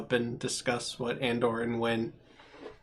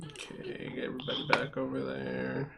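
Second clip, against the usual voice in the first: whisper; 11 dB quieter than usual. Real, not acted. GM quietly moving players along.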